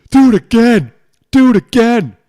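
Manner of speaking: high, loud hype call; hyped-up drinking cheer; excited cheer. Real, not acted. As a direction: egg yourself on, loud and high. Cheering on after beer chug.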